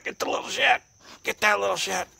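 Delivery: high, loud urging; loud egging-on. Real, not acted. Owner setting one pet on the other, high loud goading. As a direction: goad the pet on loudly.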